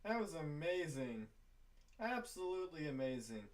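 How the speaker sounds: soft, low amazement; quiet awe. Real, not acted. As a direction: breathe it out in quiet wonder. Quiet awe after the play.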